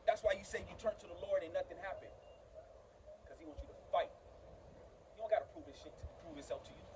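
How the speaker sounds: very soft, low and earnest; hushed preaching. Real, not acted. Preacher confronting a struggling brother, suddenly hushed. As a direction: drop right down, pausing between phrases. Preacher drops voice after shouting.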